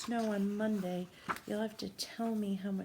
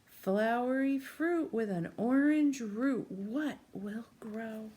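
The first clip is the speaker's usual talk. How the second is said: put-on slow, sing-song rhyme for a child; riddle read-aloud; 4 dB louder than usual. A narrator's reading. Teacher reads the rhyme to a young child, slow sing-song. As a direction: chant the riddle slowly to a little listener.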